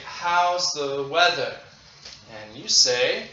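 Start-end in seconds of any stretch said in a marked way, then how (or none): 0.1-1.6 slow model question. Shown as a demonstration.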